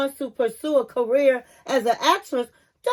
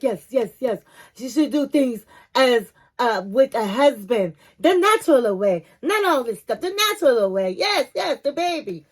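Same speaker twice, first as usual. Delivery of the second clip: happy mother. Retold or imitated. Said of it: "the mother was happy".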